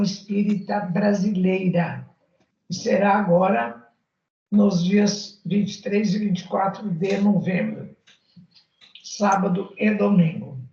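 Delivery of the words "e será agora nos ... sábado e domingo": talking through hiccups; hiccuping. Real, not acted. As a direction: hiccups breaking into the words. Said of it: "me deu soluço de novo".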